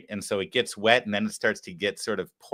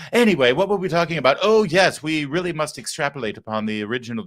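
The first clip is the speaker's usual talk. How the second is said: a touch of posh lady; 3 semitones higher, 4 dB louder than usual. Retold or imitated. Host continuing Crockett parody, mild posh lady. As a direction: keep the genteel lady going lightly. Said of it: "Jasmine Crockett's like".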